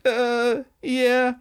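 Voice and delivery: high, small awkward admission; mock sheepish. Girl admits to the angry gangster she fooled him, mock sheepish. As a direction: squeak out a guilty confession, playfully acted.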